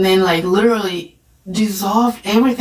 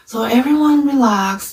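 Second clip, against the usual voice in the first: lightly imitated British accent, pitched up; a touch of British accent, higher; 5 semitones higher than usual. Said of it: "In this British accent".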